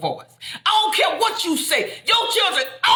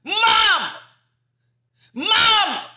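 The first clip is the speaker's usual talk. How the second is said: hollering Mama; 7 semitones higher than usual. Retold or imitated. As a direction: cry out for your mother from the ground. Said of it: "he hollered".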